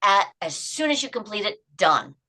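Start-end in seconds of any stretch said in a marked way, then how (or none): 1.8-2.2 satisfied. Shown as a demonstration. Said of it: "saying it out loud".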